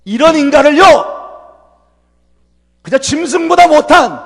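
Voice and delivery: fervent pulpit emphasis; emphatic preaching. Real, not acted. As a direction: hammer home the point.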